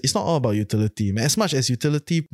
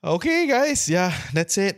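blocked-nose nasal voice; 6 semitones higher, slower than usual. Real, not acted. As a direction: talk through a stuffy nose. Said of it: "pardon my nasally voice".

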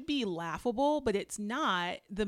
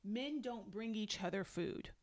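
softer, deliberate repeat of the quote; verbatim quote; 7 dB quieter than usual. Retold or imitated. Repeating husband's line for emphasis, deliberate and understated. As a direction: restate it evenly, word by word. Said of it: "He literally says".

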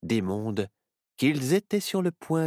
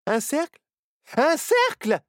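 much higher, loud alarmed cry; shouting; 6 dB louder than usual. Acted. Myrtille shouting at Barnabé to stop, alarmed. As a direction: yell to stop him in time. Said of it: "hurla Myrtille".

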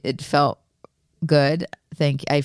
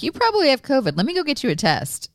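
higher, urgent friend voice; concerned friend; 11 semitones higher, faster than usual. Retold or imitated. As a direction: quote him, worried and pushy. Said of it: "he's like".

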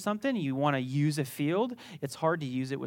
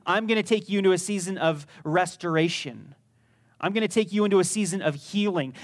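God's promise voiced; 2 semitones higher, 4 dB louder than usual. Pastor voicing God promising restoration, rousing. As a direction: announce it like a promise. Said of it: "He says".

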